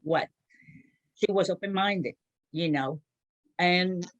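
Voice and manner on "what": quoted brush-off, words set apart; imitating an unbothered mentor; dismissive so-what. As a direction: say it like it hardly matters. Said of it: "That's how she said".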